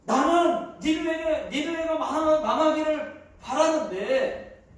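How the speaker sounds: Jonah sulking at God, voice pushed up; whiny angry protest; peevish complaint. Acted. Jonah complaining to God about Nineveh, angry. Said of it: "요나가 하나님께 성질을 부립니다".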